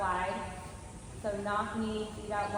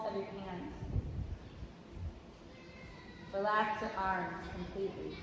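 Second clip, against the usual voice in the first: guided meditation. Acted. Leads a body-scan meditation.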